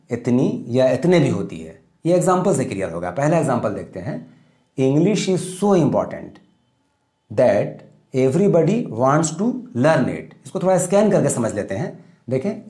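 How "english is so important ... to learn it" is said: slow dictation. Shown as a demonstration. Teacher dictating model sentence.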